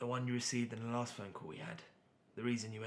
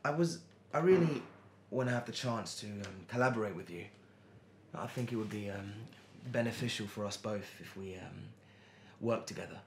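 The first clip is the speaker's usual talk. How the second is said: nervous; 4 dB louder than usual. Acted. Man asking Tara to collaborate, nervous. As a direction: stumble nervously through the request, with ums. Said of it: "Why do you sound so nervous asking me that?".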